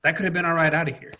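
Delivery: rapid, mildly indignant complaint; retold upset protest. Upset Marine to Garrison about the seven ton, quick retold protest. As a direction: protest in a quick rush, pitched a bit up. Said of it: "I got upset".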